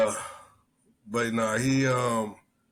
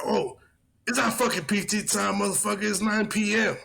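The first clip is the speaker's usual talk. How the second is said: high mock drunk sergeant, sure of himself; hammed-up drunk insisting it's night; a retold drunk sergeant arguing about the time; 7 semitones higher than usual.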